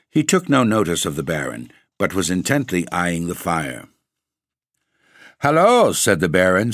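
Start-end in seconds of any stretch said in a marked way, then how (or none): 5.4-5.9 sharp loud hail; loud call. Acted. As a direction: call out to get attention. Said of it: "stamping his foot to attract attention".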